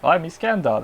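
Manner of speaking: lightly voiced character greeting; a hint of a character impression; Iskandar. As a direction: casually imitate him introducing himself. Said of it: "That's how he sounds".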